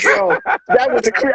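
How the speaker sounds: very high, cut-off disbelief; incredulous outburst. Retold or imitated. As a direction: explode in disbelief mid-word. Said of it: "I was like".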